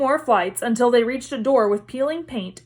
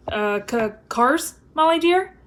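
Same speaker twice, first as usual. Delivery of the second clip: nervous, rising, innocent-sounding; guilty stammer; 3 semitones higher than usual. Acted. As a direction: play dumb, caught out.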